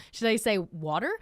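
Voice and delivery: "water" said the American way, with a tapped t and r ending; American accent on "water". Shown as a demonstration. Bilingual-style confusion over which word, American accent on "water". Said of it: "my brain doesn't know".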